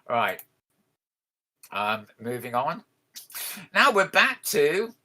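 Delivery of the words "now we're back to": slow high wailing ghost voice; ghostly howl. Pretend. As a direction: stretch it out like a howling ghost. Spooky intro of the Scarred Ghost.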